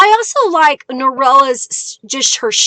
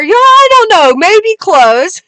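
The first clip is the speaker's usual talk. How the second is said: laughing tease; 6 semitones higher, 4 dB louder than usual. Real, not acted. Teasing about age, laughing.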